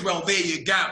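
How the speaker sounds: casual Aussie handover; broad Australian accent. Retold or imitated. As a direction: imitate an Australian waiter serving. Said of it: "he spoke with a very broad Australian accent".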